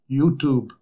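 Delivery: put-on light Ukrainian accent, one word. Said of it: "in this very Ukrainian accent and goes".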